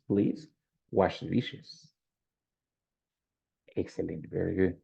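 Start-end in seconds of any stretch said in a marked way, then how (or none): 0.1-1.9 polite request. Shown as a demonstration. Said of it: "with, you know, politeness".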